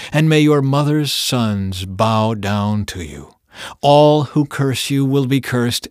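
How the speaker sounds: stately pronouncement of a blessing, drawing out the line ends; formal, declaimed benediction; solemn blessing. A narrator's reading. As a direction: proclaim a father's blessing, measured and resonant.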